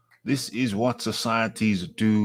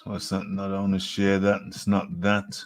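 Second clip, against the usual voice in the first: usual speaking voice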